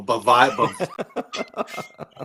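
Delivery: Bavaye tried through a laugh; laughing attempt. Shown as a demonstration. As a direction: stumble over Bavaye with a laugh. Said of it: "I can't pronounce it that way".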